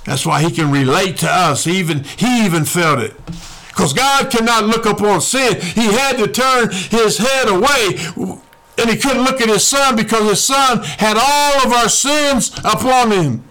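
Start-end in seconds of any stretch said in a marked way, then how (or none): 3.7-13.4 higher-pitched preacher's cadence; impassioned preaching. Real, not acted. Preacher telling why God turned from his son, impassioned.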